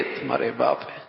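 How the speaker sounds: understated menace, dropped in volume; threat. Shown as a demonstration. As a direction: warn quietly, as if about to report him. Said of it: "دھمکی بھی ہو سکتی ہے".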